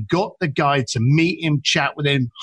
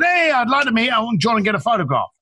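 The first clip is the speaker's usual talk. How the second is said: quick, higher-pitched cheery request; confident and jovial; 6 semitones higher, faster than usual. Retold or imitated. Caller asking to meet a famous singer, confident and jovial. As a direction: breeze through it like a confident caller. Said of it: "he's all confident and jovial".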